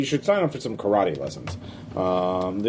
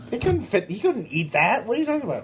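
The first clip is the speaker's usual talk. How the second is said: cop voice; 9 semitones higher than usual. Acted. GM voicing Officer Dan.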